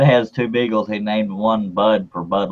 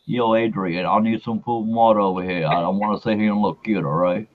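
lightly voiced film boxer; amateur boxer impression, casual and pleading; Rocky Balboa; 3 dB quieter than usual. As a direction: do a half-convincing movie boxer. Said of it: "that was a terrible impression right there".

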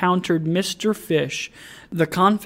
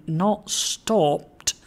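understated shocked question; shocked exclamation; 3 semitones higher than usual. A narrator's reading. Alderman hears of the banker, shocked exclamation. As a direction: react with a touch of disbelief. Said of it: "exclaimed the alderman".

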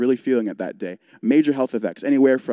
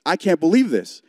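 said out loud, a bit higher and louder, in disbelief; louder exasperated repeat; 4 semitones higher than usual. Retold or imitated. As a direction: let the repeat rise in mock exasperation. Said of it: "out loud, I was like".

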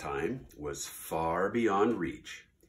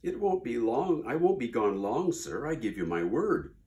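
lightly voiced eager promising Maisie; pleading bird; 3 dB louder than usual. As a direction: rush to reassure him.

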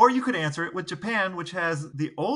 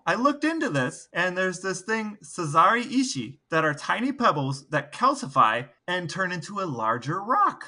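excited; 4 semitones higher than usual. Real, not acted. Excited about odd anthem facts.

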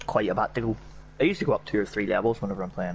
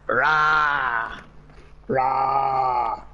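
long drawn-out English "rah"; mock English accent. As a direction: stretch it out like an English caricature. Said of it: "But the whole rah thing".

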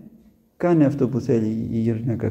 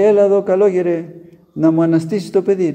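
shouting mother; 4 semitones higher, 4 dB louder than usual. Acted. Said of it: "φώναζε αυτή".

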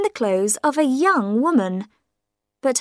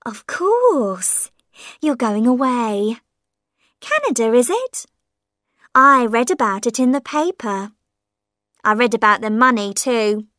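lightly voiced prying old woman; sly hint about the money; old mother prying about Canada; old woman's voice; 3 dB louder than usual. Mother eyes packing cases.

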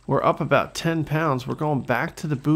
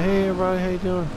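higher-pitched cheery hello; friendly greeting; 4 semitones higher, much faster than usual. Pretend. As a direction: wave to the neighbours as you pass. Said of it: "Wave to everybody".

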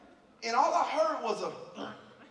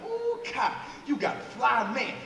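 gushing homegirl; slower than usual. Retold or imitated. Homegirls admiring Kai's new man, gushing. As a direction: coo over the man like an impressed friend.

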